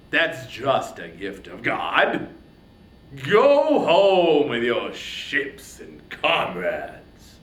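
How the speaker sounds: scornful, swelling royal fury; angry king. Acted. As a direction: Agamemnon taunting Achilles in contempt. Agamemnon's speech to Achilles.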